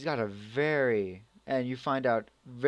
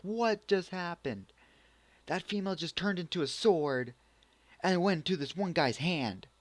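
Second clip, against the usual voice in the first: higher-pitched, astonished disbelief; mock bewilderment; 6 semitones higher than usual. Vlogger reacting to a female turning into a sword, mock astonishment. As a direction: act out baffled amazement. Acted bafflement at sword transformation.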